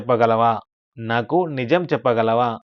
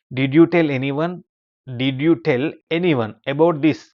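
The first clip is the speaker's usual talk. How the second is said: slow model reading; 2 semitones higher, 3 dB louder, much slower than usual. Shown as a demonstration. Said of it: "teacher models English sentence slowly".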